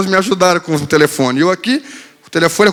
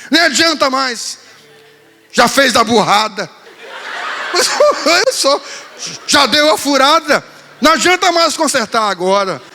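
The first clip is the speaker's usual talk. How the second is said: mock-sulky daughter; 6 semitones higher than usual. Daughter sulking in bed.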